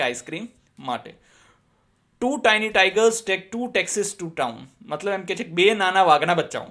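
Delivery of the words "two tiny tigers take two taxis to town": slow and a bit louder, word by word; slow tongue twister. Shown as a demonstration. Teacher demonstrates the tiger twister to students, slow and loud. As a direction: model it clearly for the class. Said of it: "Speak them repeatedly".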